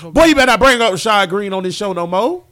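loud, emphatic mock warning; mock scolding. Co-host warns his partner off a topic, mock scolding. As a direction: warn him off loudly, in jest.

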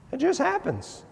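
usual speaking voice

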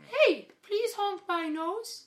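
high, slow goofy clown. Pretend. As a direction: play a silly circus clown. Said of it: "Is this a clown voice?".

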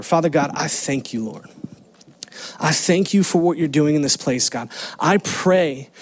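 earnest, steady pastoral prayer; closing prayer. Acted. Pastor closing the sermon praying over the congregation, earnest. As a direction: pray over the congregation with conviction.

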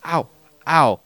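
mock pained high cry; a hammed-up pained yelp imitating a friend; mimicking Purple. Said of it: "I was, uh, mimicking Purple".

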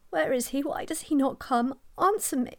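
sick mother calling loudly for the mayor; loud plea. Acted. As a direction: cry out for him from the sickbed. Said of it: "I beg your pardon for having spoken so loud".

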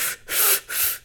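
quick breathy puffs, no voice; imitated puffing. Mimicking a friend's greedy pipe hits, voiceless puffing. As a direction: puff like someone hitting a pipe. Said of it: "like, doing that type thing".

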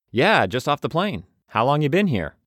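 chirpy fresh-off-the-plane backpacker; new traveler's voice. Acted. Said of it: "I do need to change voices".

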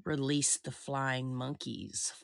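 slow, witchy cackling command; witch voice. Acted. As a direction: call it out like the Wicked Witch. Quoting the Wicked Witch.

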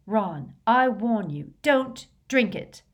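anxious, insistent caution; alarmed. A narrator's reading. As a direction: warn them off, slowing on the last words.

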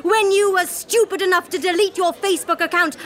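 ordinary delivery

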